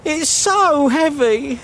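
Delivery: drawn-out moan under a load; weary complaint. Acted. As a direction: drag the words out wearily. Complains of carrying heavy cake.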